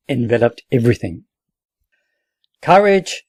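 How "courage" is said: a high rallying shout. A narrator's reading. Captain rallying his soldiers in the smoke, shouting. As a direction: cry Courage to the wounded men. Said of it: "shouted the captain".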